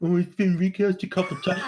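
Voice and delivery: mocking parrot. Co-host throws the objection back, mocking.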